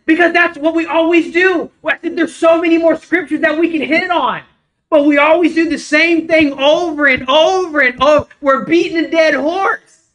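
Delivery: retold excited rant. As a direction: vent it to your wife, fired up. Retold rant to his wife.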